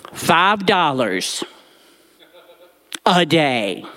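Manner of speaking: slow, dragged-out indignation; mock disgust. Boy recalling his granny's allowance, slow indignant. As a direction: linger on the outrage. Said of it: "she allowed me to spend".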